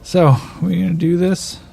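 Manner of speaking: tired gunman calling out his rival; rueful weary outlaw. Acted. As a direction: admit it, then dare him to fight. Elias rueful, character voice.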